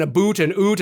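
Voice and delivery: "a boot" and "oot" with an oo vowel; mock Canadian "aboot". Listing movie clichés about Canadians, mock Canadian oo in "a boot". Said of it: "and all this kind of shit".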